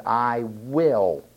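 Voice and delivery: "will" drawn out; stress on WILL. Acted. God declaring his sovereignty, stress on "will". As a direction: lean long on "will" after a short "I". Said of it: "the word will reveals his sovereignty".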